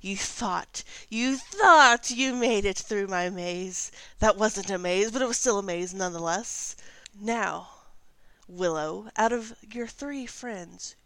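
loud taunting hag voice; old hag. Acted. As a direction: gloat like a wicked old witch. GM voices the mysterious cackler.

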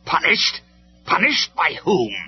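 high, loud, scornful disbelief; incredulous villain. A narrator's reading. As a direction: throw the word back in outraged disbelief. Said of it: "could hardly believe what he was hearing".

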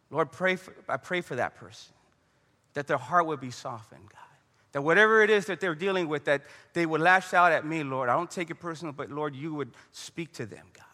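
hushed, earnest prayer voice. Acted. Models a prayer for the offender.

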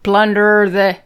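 mock pirate, trailing into filler; half-hearted pirate talk; pirate accent. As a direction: improvise in a stock pirate accent. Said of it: "if you do a pirate accent".

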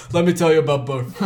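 lightly voiced brash politician, quick; Donald Trump. Writer mocking their own birth story, light Trump impression. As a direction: toss out a laughing, rough political impression. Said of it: "like Donald Trump".

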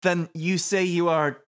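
put-on high, loud hammy French accent; french chef. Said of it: "I don't know what that one".

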